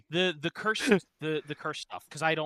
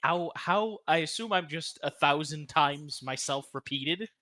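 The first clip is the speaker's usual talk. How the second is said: cave echo. Real, not acted. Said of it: "You sound like you're in a cave".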